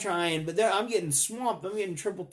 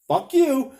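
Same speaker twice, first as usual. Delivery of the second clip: mock angry retort; 6 semitones higher, 6 dB louder than usual. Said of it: "And you're like".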